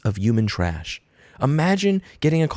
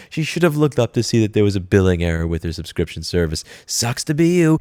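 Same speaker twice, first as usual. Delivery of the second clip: mock commenter. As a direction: sneer it like a smug troll. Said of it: "some piece of effing garbage in the comment section is gonna go".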